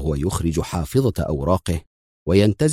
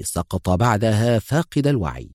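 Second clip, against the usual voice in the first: ordinary delivery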